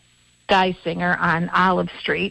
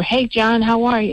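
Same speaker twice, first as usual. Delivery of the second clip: a friendly holler retold, only slightly raised; yelling over; 3 semitones higher than usual. Host retelling calling out to her neighbor, a mild mock yell. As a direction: call it across the yard, lightly. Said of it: "I yelled over".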